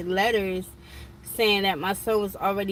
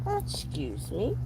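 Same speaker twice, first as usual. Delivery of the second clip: slow, higher, drawn-out affronted question; offended mama's disbelief; indignant disbelief; 4 semitones higher, 6 dB quieter, slower than usual. Retold or imitated. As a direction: stretch it out, incredulous, swinging up at the end. Mother reacts indignantly to son's account.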